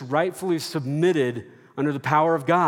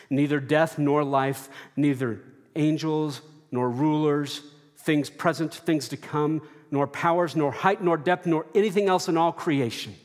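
louder, building list; rising litany; 3 semitones higher, 4 dB louder than usual. Acted. Preacher proclaiming nothing can separate us, louder fervor. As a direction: climb through the list with mounting fervor.

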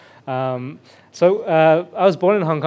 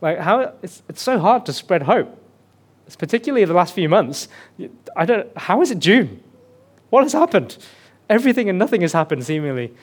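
higher, louder, building bewilderment; higher, louder retold friend's exasperation; exasperated friend; 4 semitones higher, 3 dB louder than usual. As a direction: voice a friend at wit's end, peaking on what has happened. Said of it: "they were like".

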